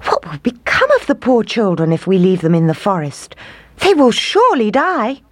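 rising, anguished plea; distressed plea. Acted. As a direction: beg for the children's lives. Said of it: "cried the woodcutter".

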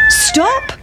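very high crowing call; cockerel. Acted. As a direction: crow it out. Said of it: "said the cock".

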